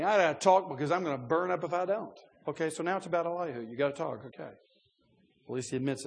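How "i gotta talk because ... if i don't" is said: urgent. Retold or imitated. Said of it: "Elihu is saying".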